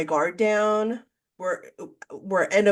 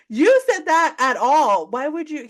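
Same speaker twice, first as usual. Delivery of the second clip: exasperated scolding; 5 semitones higher, 4 dB louder than usual. Retold or imitated. Scolding the first guy on the phone, exasperated. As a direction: scold him in disbelief.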